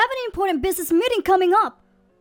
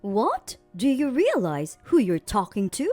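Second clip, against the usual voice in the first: retort; 2 semitones lower than usual. Acted. Boss snapping back at the employee, pulling rank with menace. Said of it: "Wilson retorted".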